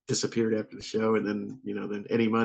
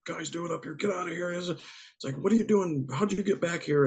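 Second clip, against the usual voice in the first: mock indignant guard; 8 semitones higher than usual. Retold security guard confronting them.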